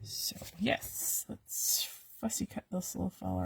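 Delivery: soft unvoiced whisper. Real, not acted. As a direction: whisper it close to the mic. Whispers while cutting.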